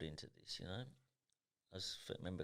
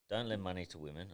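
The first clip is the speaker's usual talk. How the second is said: quoting dad's rule. Retold or imitated. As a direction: lightly voice the father laying down the rule. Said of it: "Don't drink drive".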